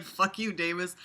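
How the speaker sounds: lightly put-on mocking voice; mock character reply. Reader acting out a friend dismissing Davis, mocking voice. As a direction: parody a dismissive friend's explanation.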